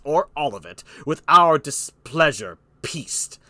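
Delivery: weighty, emphatic kingly declamation; King Lear. Acted. Lear offering his daughter to Burgundy, emphatic kingly voice. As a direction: land key words hard and stretch them.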